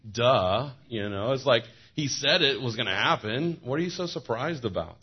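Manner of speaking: sassy angel scoffing at the women; sarcastic. Retold or imitated. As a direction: roll your eyes at the obvious. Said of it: "sarcastic tone".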